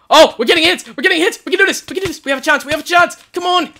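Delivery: high, loud rising hope; cheering on his team mid-fight; excited cheering. Real, not acted. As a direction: shout encouragement as the tide turns.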